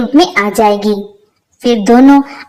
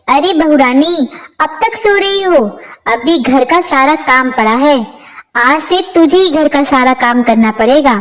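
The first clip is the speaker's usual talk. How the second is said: put-on a raised, nagging old mother-in-law call; mother-in-law scolding; 2 semitones higher than usual. Mother-in-law calls her lazy daughter-in-law awake, scolding. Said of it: "भोला की माँ के चिल्लाने की आवाज".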